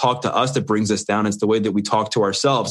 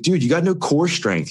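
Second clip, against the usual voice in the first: higher, teasing trainer voice, calling him out; mock coach taunt; 6 semitones higher than usual. Jail trainer teasing his out-of-shape friend, higher mock coach voice. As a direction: play the jail trainer ribbing a weak beginner. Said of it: "he's like".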